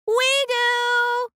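chorus it eagerly; eager boys. Acted. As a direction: boys keen to clean the plate.

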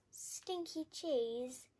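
slow, drawn-out disbelieving echo; mildly shocked bat, stretching the words; astonished cry. Acted. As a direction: repeat it slowly as if appalled. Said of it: "cried Albert".

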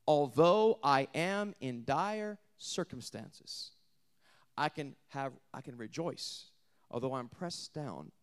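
slow, intense preaching that dips to a hushed whisper; preaching Paul's words. Acted. Preacher voicing the apostle, slow and intense. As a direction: build from hush to a defiant swell.

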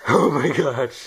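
squeaky high laugh, then a slow oh my gosh; helium giggle. Real, not acted.

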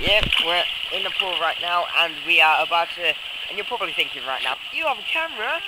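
echoey poolside shouting; loud over pool echo; at an indoor pool. Real, not acted. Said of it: "That's dangerous".

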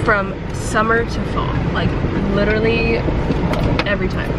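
stuffy allergy nasal voice. Real, not acted. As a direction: talk through a blocked nose. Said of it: "to explain my nasally voice".

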